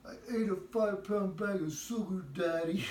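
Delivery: put-on dazed child. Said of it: "And she goes".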